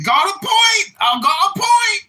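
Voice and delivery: loud and high, mocking echo; put-on troll voice. Troll mockingly echoing the other speaker, loud and high. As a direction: bark it back in the fake persona. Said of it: "I guess I can stop talking like this now".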